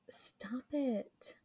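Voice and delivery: quick hushed "stop it"; whispered aside. Real, not acted. Co-host breaking off to shush someone, whispered. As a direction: whisper it under your breath.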